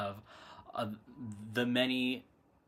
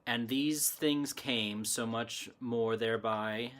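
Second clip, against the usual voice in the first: measured poem reading with a faint Irish lilt; poetry recital, a hint of Irish accent creeping in; slight Irish accent. Real, not acted. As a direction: recite the verse, lightly tinged with Irish. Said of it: "kind of reading it in the accent".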